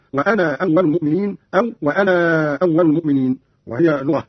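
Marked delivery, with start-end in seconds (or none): 0.1-1.4 وأنا with its final "aa" kept, briefly held; short madd. Shown as a demonstration. Teacher shows Qalun's first option, وأنا with short final "aa". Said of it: "فيه المد والقصر هكذا". 1.8-3.4 وأنا with a long held final "aa"; long madd. Shown as a demonstration. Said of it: "فيه المد والقصر هكذا".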